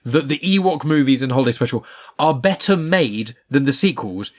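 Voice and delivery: heated, emphatic argument; worked-up, insistent telling-off; aggressive rant. Real, not acted. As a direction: lay into them with emphatic swearing. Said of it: "Oh my God, so much aggression".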